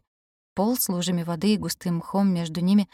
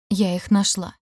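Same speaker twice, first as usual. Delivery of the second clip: raspy whisper; 4 dB louder, slower than usual. Acted. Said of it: "тихо просипела я".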